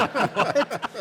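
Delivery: loud, high, incredulous cry; hammed-up shocked reaction; astonished outburst. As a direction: burst out in mock disbelief. Retells shock at her Chicago answer.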